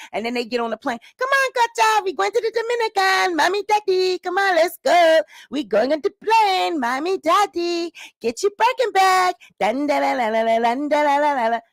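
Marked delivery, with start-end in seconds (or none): 1.2-9.4 higher, eager call to hurry; excited urging. Acted. Husband hurrying his family to the plane, excited. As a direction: rush everyone onto the plane.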